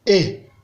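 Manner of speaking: Et short, dropping low. Shown as a demonstration. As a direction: drop Et briefly to the bottom. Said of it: "Ça donne ceci". (« Et » au ton bas)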